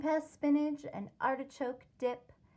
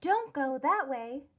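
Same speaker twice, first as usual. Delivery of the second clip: warning yell; 3 semitones higher, 5 dB louder than usual. Acted. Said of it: "yelled a chickapea to warn her".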